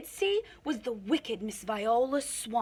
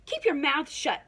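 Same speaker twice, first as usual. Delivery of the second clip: stern order; 5 semitones higher than usual. A narrator's reading. Miss Swamp commands the class.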